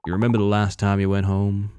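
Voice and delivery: low, hushed, ominous stranger; creepy stranger. Acted. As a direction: speak low and knowingly, like a haunting. Eerie stranger continues.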